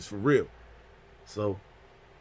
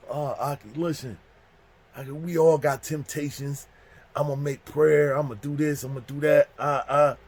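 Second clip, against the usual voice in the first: pleading culprit; 3 semitones higher than usual. Retold or imitated. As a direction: plead your case, stretching the words. Culprit making excuses.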